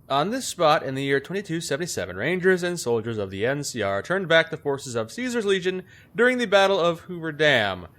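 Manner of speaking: low-pitched solemn read-aloud; formal plaque reading. Acted. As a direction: read out a memorial inscription, low. Reads out a memorial plaque.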